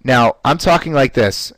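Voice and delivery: bright smile you can hear; smiling voice. Shown as a demonstration. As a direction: talk with a smile in the voice. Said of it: "all I did was smile".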